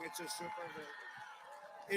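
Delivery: slow, soft murmured aside. Real, not acted. Speaker at a rally murmuring "It's a super thing" softly to himself. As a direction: drop it low and slow, almost to yourself.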